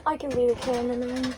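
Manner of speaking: whiny voice. Acted. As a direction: fake whiny, quick. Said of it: "Quit making a fake whiny voice".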